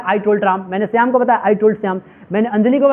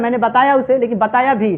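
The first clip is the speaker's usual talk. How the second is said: बताया pressed harder than the other words; stress on बताया. Shown as a demonstration. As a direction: lean on बताया in both halves. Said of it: "बताने पर जोर दे रहा है".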